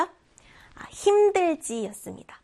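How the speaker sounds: whispered answer 힘들지. Shown as a demonstration. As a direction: breathe the answer like a secret. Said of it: "whispered answer". (속삭이듯)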